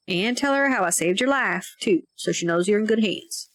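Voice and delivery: put-on folksy old-timer chiming in; lightly voiced rural mountain man; old country farmer.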